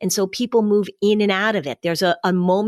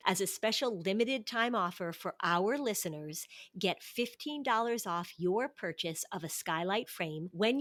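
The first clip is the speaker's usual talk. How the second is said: sponsor ad read; 13 dB quieter than usual. Real, not acted.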